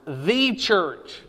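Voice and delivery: THE said long as "thee", then a firm church; stress on both words. Real, not acted. Teacher telling class to underline both words, stress on THE CHURCH. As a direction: give THE and church each their own weight. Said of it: "underline both of these words".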